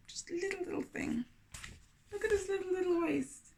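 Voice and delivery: cooing tiny-thing voice. Acted. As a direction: coo it small and sweet. Showing tiny waist to kids.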